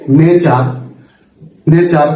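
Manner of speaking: "নেচার" ending in an open ah; British silent r. Shown as a demonstration. Teacher gives an example of the final R rule, silent r. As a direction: leave off the r closing "নেচার". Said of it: "আমরা উচ্চারণ করব না British অ্যাকসেন্টে".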